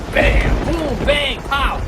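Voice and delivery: loud explosive sound words; imitated thunder claps. Storyteller imitating the storm, explosive bangs. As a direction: punch out each thunderclap.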